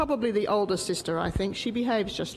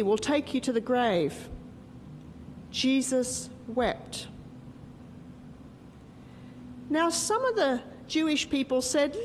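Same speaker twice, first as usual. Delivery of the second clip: story narration. Acted. Teacher telling children the story of Lazarus, gentle storytelling. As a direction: unfold the Bible story line by line.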